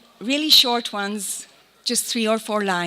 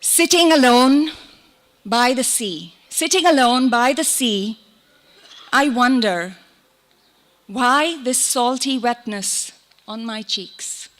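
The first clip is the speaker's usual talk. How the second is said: measured, lingering poem recital; poetry reading. Acted. Poet shares a short poem about the sea, lingering recital. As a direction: recite it with pauses, easing into the last line.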